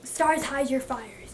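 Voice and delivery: slow, deliberate quoting; slow recitation. Real, not acted. Recalling a Macbeth line for viewers, slowly. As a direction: savour each word of the line. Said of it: "Oh, I remember".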